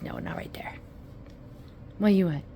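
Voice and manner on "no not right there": voicing the dog. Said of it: "bear says".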